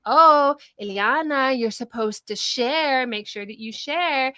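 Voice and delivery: slow, lightly acted parental prompting; dutiful parental reminder. Mother reminding her daughter to share, mildly acted admonishment. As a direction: draw it out like a mild admonishing parent. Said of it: "I did feel this compulsion".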